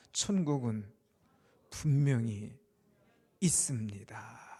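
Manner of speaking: low, loud, measured proclamation; leading a declaration. Real, not acted. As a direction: declare it firmly in separated phrases for repeating. Leads congregation in repeating a declaration. (낮고 힘 있게 끊어서 선포하듯)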